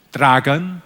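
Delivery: lightly rising Welsh "Dragon"; low Welsh heckle out of nowhere; Welsh accent. Retold or imitated. Audience member to comic in Cardiff, Welsh accent. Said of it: "doing a gig last year in Cardiff".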